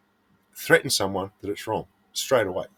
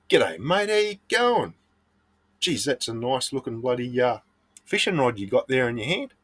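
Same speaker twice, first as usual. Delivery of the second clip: friendly greeting; 2 semitones higher than usual. Shown as a demonstration. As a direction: greet him like an old mate, lightly acted. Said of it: "ask them in a friendly manner".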